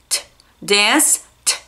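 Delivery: dance closed on a separate, crisp T sound; crisp final T. Shown as a demonstration. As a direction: end dance with a light T, no extra vowel. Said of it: "Som de T no final".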